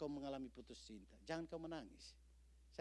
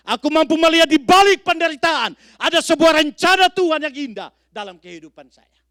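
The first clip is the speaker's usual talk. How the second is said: higher and much louder, hammering each sedalam apapun; preaching at full force; 31 dB louder than usual. Acted. Preacher thundering at the congregation about suffering, full-force preaching. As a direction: build to a thundering pulpit cry.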